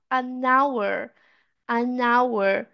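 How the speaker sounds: "an hour" joined as "a-nour"; linked silent H. Shown as a demonstration. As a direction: glide the N of "an" into "hour". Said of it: "esse H aqui eu vou eliminar ele".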